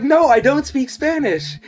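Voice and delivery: high, slow, half-laughing; amused denial. Retold or imitated. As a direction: protest while still amused. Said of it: "I'm like".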